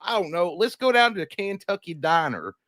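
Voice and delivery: folksy Southern husband to his honey; lightly hammed-up Southern accent; put-on Southern accent. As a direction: play a Southerner making a dinner suggestion. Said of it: "once you get down in that Southern accent".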